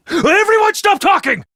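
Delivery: sudden alarmed order; urgent shout. Acted. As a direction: stop everyone mid-sentence. Commander silences troops, enemy on radar.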